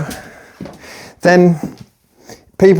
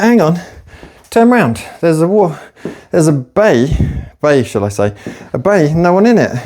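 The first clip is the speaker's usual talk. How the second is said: helpful nurse; 2 semitones higher than usual. Retold or imitated. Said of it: "And it was like".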